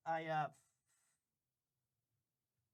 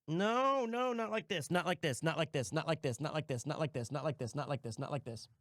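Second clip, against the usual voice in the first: dramatic despair. Pretend. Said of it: "despairing repeat fading".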